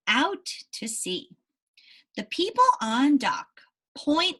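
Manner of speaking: slow, careful read-aloud narration; story reading. Acted. Teacher reading the ship story to her class, slow narration. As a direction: read each phrase clearly for young listeners.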